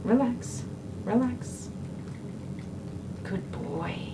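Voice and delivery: soft, hushed reassurance to an animal; calm the dog quietly; soothing. Real, not acted. Soothing a dog being groomed.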